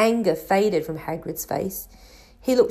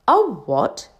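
interested; 3 semitones higher, 4 dB louder than usual. A narrator's reading. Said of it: "said Harry, interested".

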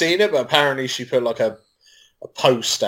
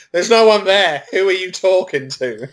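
higher, imitated yelling wife; wife screaming; 9 semitones higher than usual. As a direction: echo the wife's yell, pitched up. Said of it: "I just got my wife screaming".

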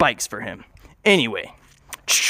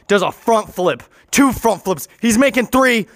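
rising higher with each flip; building excitement; 6 semitones higher than usual. A narrator's reading. Storyteller calling Thomas's flips, excitement mounting. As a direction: build the thrill step by step, climbing in pitch.

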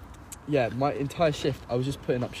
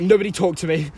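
stressed Heather; 4 semitones higher, 5 dB louder than usual. Retold or imitated. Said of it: "she's like".

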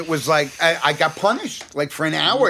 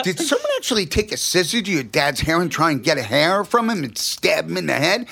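half-laughing as he asks it; giggling through the question; 3 semitones higher than usual. Retold or imitated. Boy laughing while asking the girl.

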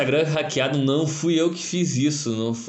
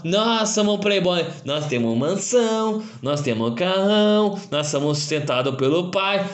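mock playboy voice; 3 semitones higher than usual. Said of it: "E aí tem os playboy".

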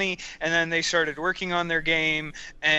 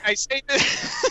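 Louis C.K. voice; 9 semitones higher, 3 dB louder, slower than usual. Pretend. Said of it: "in the Louis C K method".

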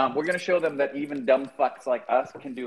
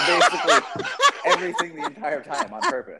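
laughing; 5 dB louder than usual. Real, not acted. Laughing through the verdict.

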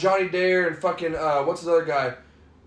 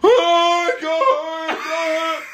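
exasperated shout; 12 semitones higher, 4 dB louder than usual. Real, not acted. Disbelieving outburst at friends.

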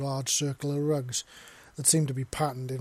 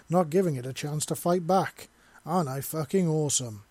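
mock show-off alpha, louder; macho bragging voice; 4 dB louder than usual. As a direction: puff yourself up, hammy braggart. Mocking a bragging trophy hunter.

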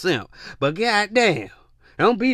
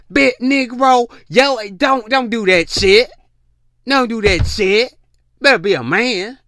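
loud, pitched-up scolding rant; exasperated scolding; 5 semitones higher, 4 dB louder than usual. Real, not acted. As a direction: call the men out hard. Scolding men directly.

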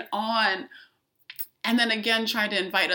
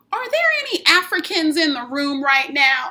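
louder, higher mock Southern woman; put-on Southern accent, pitched up and loud; 5 semitones higher, 5 dB louder than usual. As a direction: imitate a Southern woman addressing the room. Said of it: "This is my Southern accent".

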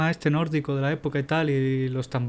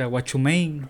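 fake foreign language; slower than usual. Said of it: "el inglés que usa es ese".

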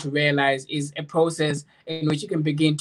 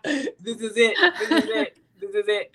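laughing; 7 semitones higher than usual. Retold or imitated. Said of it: "was like".

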